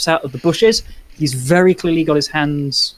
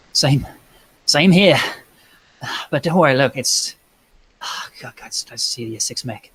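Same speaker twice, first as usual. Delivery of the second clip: sighing. Acted. Soldier greeting a comrade from Sixth Mech, sighing. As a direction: sigh it out with mild relief. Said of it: "he sighs".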